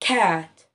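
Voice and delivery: cat said once, crisp and clear; teacher modelling cat for the class; word said for counting. Shown as a demonstration. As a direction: sound out cat as one beat. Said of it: "لو جربنا مثلًا كلمة زي كلمة".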